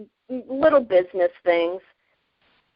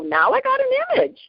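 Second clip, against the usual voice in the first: amused quip; faster than usual. Retold or imitated. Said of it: "I started laughing".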